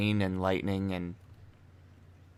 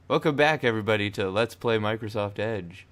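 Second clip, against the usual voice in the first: announcer intro; 5 dB louder than usual. Pretend. Mock Let's Play intro.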